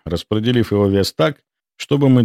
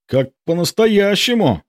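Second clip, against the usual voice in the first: high, thrilled exclamation on an outbreath; breathless gasp; 11 semitones higher than usual. A narrator's reading. Borka peeking from cover, amazed at the realism, breathless. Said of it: "выдохнул Борька".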